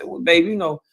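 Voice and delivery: sweet, courteous tone to the husband; kind voice. Shown as a demonstration. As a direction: soften it like you're politely raising a point with babe. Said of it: "in a very kind voice".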